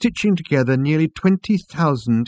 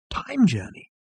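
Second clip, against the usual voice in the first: higher, light questioning voice; Trillian; 8 semitones higher, 3 dB quieter than usual. A narrator's reading. Trillian echoing the waiter's phrase, higher voice. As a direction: echo it in a higher voice.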